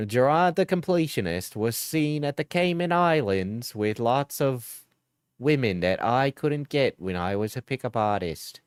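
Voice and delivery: lightly voiced Australian video narrator; exposé narration with only a hint of Australian; Carl Jobst. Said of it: "do a Carl Jobst voice".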